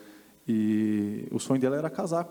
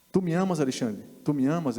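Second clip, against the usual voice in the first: pointed question; 3 semitones higher than usual. Retold or imitated. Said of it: "apontando o dedo pra mim".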